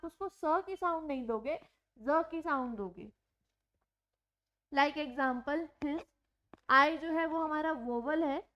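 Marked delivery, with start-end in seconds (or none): 5.8-6.0 हिज with a buzzing z at the end; z sound in his. Shown as a demonstration. Teacher models हिज for students with a clear z. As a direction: say हिज ending in a voiced z, not s. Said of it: "हम उसको ज की sound देते हैं".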